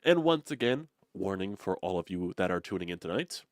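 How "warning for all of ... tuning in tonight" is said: ordinary delivery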